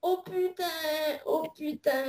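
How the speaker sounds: soft slurred lisp on Oh putain; slushy lisp. Acted. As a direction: slur Oh putain through a lisp. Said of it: "Qu'est-ce que t'as là?".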